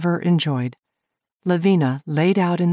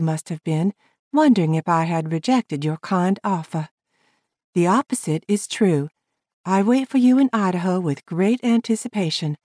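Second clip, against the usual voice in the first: higher woman's voice, formal; Lavina reading her letter; 3 semitones higher than usual. Acted. Lavina reading her reply to Ted, higher and formal. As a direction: read a polite letter aloud.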